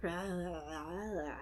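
mock groggy noises, softly trailed; groggy mumbled "rah". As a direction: mumble like someone woozy on meds. Imitating drugged Mulder's groggy noises.

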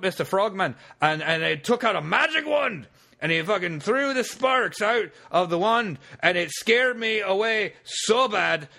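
put-on hammy drunk Scotsman telling a tall tale; thick mock Scottish brogue, rambling; bad Scottish accent. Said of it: "in a bad Scottish accent".

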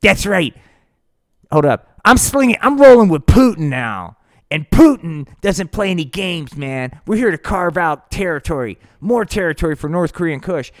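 loud, high hustler voice; high, loud dealer swagger; weed pusher. Acted. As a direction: strut it like a street dealer. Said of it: "it's the weed pusher".

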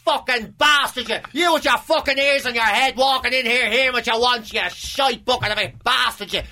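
mock row rant. Acted blazing row quote.

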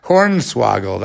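Hornswoggled slowed down and relished; savoring the word. Shown as a demonstration. Repeating his favorite new word, savoring it slowly. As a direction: roll out Hornswoggled slowly, enjoying it. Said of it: "I like that one".

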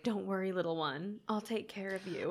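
softly imitating a quiet reassurance; understated, creepy-quiet quote. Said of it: "she very quietly says".

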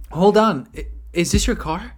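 mock surprised woman. Chick running back to the prankster, mock surprise. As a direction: imitate a gold digger spotting the car.

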